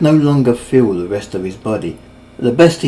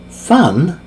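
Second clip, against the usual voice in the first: higher, doubtful question; skeptical; 6 semitones higher, 4 dB louder than usual. Acted. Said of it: "Mangloss said skeptically".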